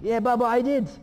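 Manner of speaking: very loud, high-pitched kid imitation; excited youngest child. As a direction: blurt it out like a proud little one. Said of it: "and my youngest".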